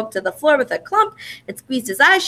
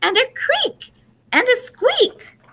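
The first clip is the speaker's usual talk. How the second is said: high, slow, squeaky cub voice; little Baby Bear; slower than usual. A narrator's reading. Baby Bear under the covers listing scary sounds, high and slow. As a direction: draw out the noises like a scared tiny cub. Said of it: "said Baby Bear".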